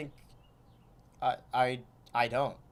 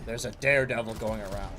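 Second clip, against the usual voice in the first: Kingpin voice. Acted. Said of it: "I just love doing the Kingpin voice".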